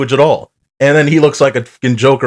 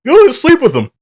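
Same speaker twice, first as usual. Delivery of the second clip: mock macho pitch rising much higher, faster; mocking sixties guy; 5 semitones higher, faster than usual. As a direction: parody of a cocky old-school husband, pitch soaring. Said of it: "it's parodying off that".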